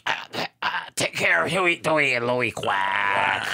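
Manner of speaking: choked, faint last words; dying mother duck. Acted. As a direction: gasp out a hammed-up deathbed plea. Elastic were like.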